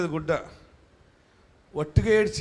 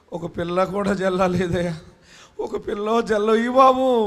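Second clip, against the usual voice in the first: mock wailing prayer; 4 dB louder than usual. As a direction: cry out Babu, Babu like a begging wife. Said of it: "తర్వాత ఏం ఏడుస్తుంది". (ఎక్కువ చేసి నటించిన ఏడుపు ప్రార్థన)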